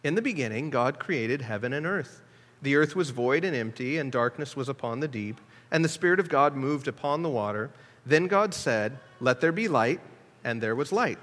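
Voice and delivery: measured, solemn reading of the Genesis verses; solemn scripture reading. Shown as a demonstration. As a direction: let the verses ring, unhurried. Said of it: "Now listen to Tyndale".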